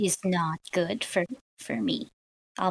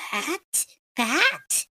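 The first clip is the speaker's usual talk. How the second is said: incredulous reaction; 7 semitones higher than usual. Acted. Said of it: "Every time I see a picture of William, I go".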